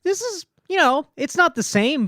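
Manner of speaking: high put-on stereotype voice; a hammed-up cultural caricature. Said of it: "it's like diet Chinese voice".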